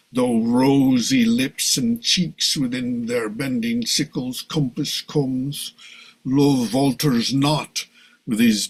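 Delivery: Shakespearean original pronunciation, unhurried. Shown as a demonstration. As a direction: recite in Elizabethan original pronunciation. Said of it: "but in original pronunciation".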